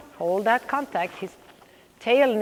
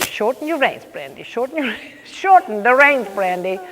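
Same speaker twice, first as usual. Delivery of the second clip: mock self-quote; 2 semitones higher, 3 dB louder than usual. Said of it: "I have a feeling I'm always saying that to you".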